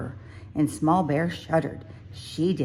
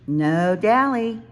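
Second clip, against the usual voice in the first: self reminder; 5 semitones higher, 5 dB louder, slower than usual. A narrator's reading. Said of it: "Small Bear said".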